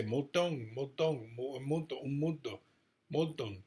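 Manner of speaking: put-on the name said the Spanish way, a light Spanish accent, Moulton as moltoŋ with a final ng. Mimicking how Spanish speakers would say the name, light Spanish accent. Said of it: "Like Spanish people would say".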